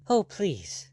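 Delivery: high, alarmed plea. Acted. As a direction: beg him in sudden alarm. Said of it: "There was real alarm in her voice".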